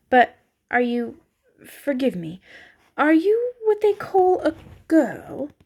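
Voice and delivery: fawn's question rising high and slow; eager curious fawn. A narrator's reading. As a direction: let the wonder climb up high. Faun asks if she is a girl.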